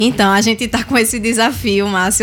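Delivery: speaking with nervous laughter. Answering a question about a deadline for visiting all the cities: laughing nervously while speaking. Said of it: "Eu tô rindo de nervosa".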